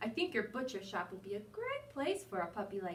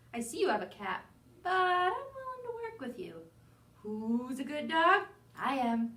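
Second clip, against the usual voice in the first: eager puppy voice; 3 semitones higher, 5 dB louder than usual. Acted. Dog boasting in letter.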